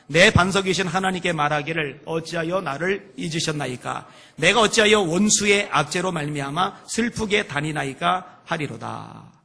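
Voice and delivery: measured, projected scripture reading; loud reading aloud. Shown as a demonstration. Preacher leading the congregation in a drill, loud reading aloud. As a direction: read out firmly for all to follow. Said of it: "가급적 큰 소리로".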